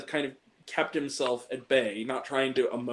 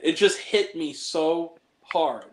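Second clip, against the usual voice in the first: near tears; 3 semitones higher, slower than usual. Real, not acted. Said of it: "I'm gonna cry just saying it".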